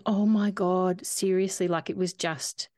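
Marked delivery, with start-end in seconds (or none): 0.1-1.7 drawn-out, mildly incredulous retold reaction; replaying a moment of slow, stunned exasperation; exasperated disbelief. Retelling her reaction to curt midwife.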